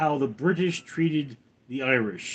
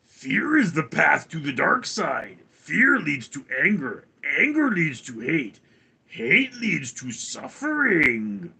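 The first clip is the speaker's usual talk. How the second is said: theatrical re-reading. Shown as a demonstration. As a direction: intone it like a solemn film warning. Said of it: "let me read that one again".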